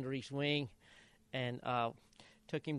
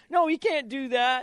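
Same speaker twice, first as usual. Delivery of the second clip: imitating son; 9 semitones higher, 8 dB louder than usual. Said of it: "he starts".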